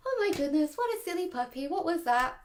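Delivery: light singsong puppy talk; upbeat. Shown as a demonstration. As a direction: playfully marvel at a silly puppy. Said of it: "as long as it's upbeat".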